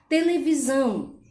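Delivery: Televisão with weight on the final são; stress on SÃO. Shown as a demonstration. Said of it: "o são é a sílaba também mais forte". (Televisão com ênfase no são final)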